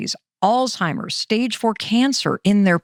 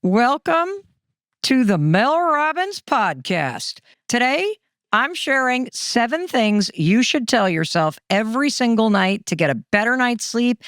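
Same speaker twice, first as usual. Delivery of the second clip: podcast intro. Acted. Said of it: "you get to say the final thing".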